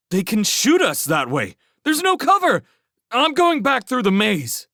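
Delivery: high, loud frantic protest; panicked refusal. A narrator's reading. Railsmith refuses to follow Felix into the open, yelling in panic. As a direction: shout it in terror of being exposed.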